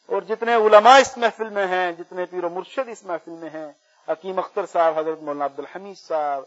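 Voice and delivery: measured roll of names in prayer; prayer supplication. Real, not acted. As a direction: list each honoured name before God. Prayer listing scholars by name. (دعا میں ناموں کا ٹھہرا ہوا ذکر)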